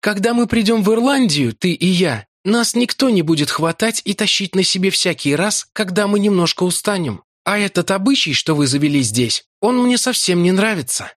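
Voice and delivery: Larry sulking at Lakla; sulky Irishman. A narrator's reading. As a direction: grumble about their customs.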